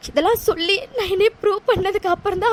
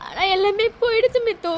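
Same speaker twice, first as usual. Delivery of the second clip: tearful lament. Acted. Lost dreams lament to friend.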